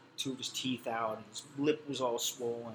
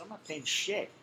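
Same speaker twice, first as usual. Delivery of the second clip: defiant refusal; 7 semitones higher than usual. Retold or imitated.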